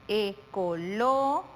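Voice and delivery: slow "ecológico", long pause after a rising LÓ; broken into syllables. Shown as a demonstration. Teacher presenting the last word, "ecológico" slowly broken into parts. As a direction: draw out e-co-LÓ, wait, then finish "ecológico". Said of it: "Dónde damos la mayor intensidad".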